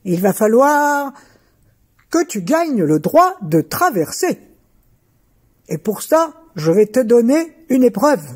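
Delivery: a giant laying down the rules. Acted. Giant sets a test.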